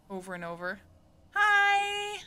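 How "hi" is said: high, loud, held-out squeal; repeated catch sound. Shown as a demonstration. Streamer showing a sound they keep repeating, high loud squeal. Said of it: "sound noise, and I keep saying it".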